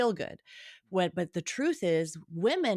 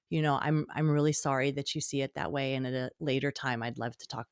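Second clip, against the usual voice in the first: gentle, lower-pitched apology; soft, gentle answer; 4 semitones lower, faster than usual. Acted. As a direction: answer softly to calm things down. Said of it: "a softer, gentler emotion".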